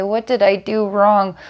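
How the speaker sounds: put-on a hurt little girl pleading through tears; crying little girl. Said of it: "she starts to cry and say".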